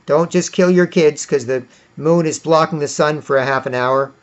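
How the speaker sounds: loud at first, then calming down; mock shouted warning. A sensible person stopping a child sacrifice, shouting then calming. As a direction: shout no, then ease into pleading. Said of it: "And somebody be like".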